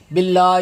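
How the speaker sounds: "باللہ" as billa-ee, h missing; mispronounced ending. Shown as a demonstration. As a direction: drop the final h of "باللہ". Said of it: "وہ ہے ہی نہیں".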